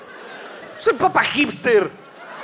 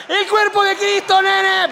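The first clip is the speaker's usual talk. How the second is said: cool pope; 10 semitones higher, 3 dB louder, much slower than usual. Pretend. Pope giving communion, hyped.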